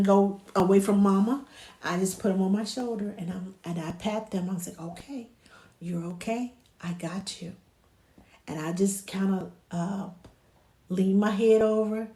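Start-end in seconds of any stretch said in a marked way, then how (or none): 4.8-7.5 hushed, gentle comforting; small soothing voice. Shown as a demonstration. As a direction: soothe an upset baby softly. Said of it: "Find a small voice".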